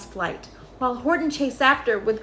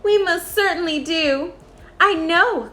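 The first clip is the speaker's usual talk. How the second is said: high, small grateful mayor voice; tiny Who mayor; 6 semitones higher, 4 dB louder than usual. A narrator's reading. The mayor of Whoville thanks Horton, high tiny voice. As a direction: pitch up small and eager like a tiny townsman.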